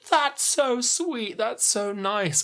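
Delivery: high, slow gushing; gushing sweetly. Retold or imitated. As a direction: coo it like you're smitten. Nick's gushing quote.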